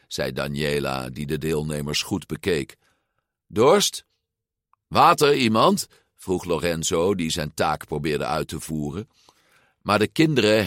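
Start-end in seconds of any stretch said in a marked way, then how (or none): 3.5-5.9 higher, questioning call; offering water. A narrator's reading. Lorenzo offers cups of water to passing children, calling out higher.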